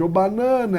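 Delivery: banana with its second syllable lengthened; banana called out briefly, baNAna; stretched stressed syllable. Shown as a demonstration. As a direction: lean on the middle NA of banana. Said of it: "é a que eu estimo".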